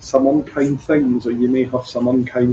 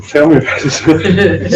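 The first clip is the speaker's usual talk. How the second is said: slow, knowing, a bit louder and higher; wry; 5 semitones higher, 6 dB louder, slower than usual. Retold or imitated. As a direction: say it dryly, you've been there. Wry reply to registrar's headache.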